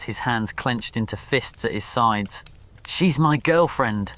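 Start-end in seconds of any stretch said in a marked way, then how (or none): 2.9-4.1 put-on slow, raised declaration of her as his girlfriend; exclaimed. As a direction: plant the words slowly and firmly. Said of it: "he exclaimed".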